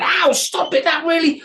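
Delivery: very high, loud yelps; troll in pain. A narrator's reading. Troll stabbed in the finger, high squealing ow. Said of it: "did it again and again".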